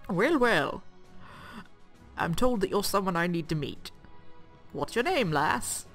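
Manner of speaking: lightly voiced old man; a hint of a gruff old man. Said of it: "better at the old man voice than I am".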